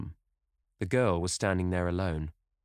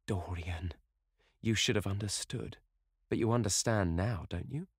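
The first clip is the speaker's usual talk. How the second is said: tender and soft; 2 semitones higher than usual. Acted. Sibyl to Dorian, soft and tender. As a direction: coax him gently. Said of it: "long-drawn music in her voice".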